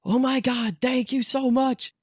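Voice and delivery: high-pitched, gushing retold thanks; overjoyed relief. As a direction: squeal it in mock-tearful gratitude. Retold relief at found keys.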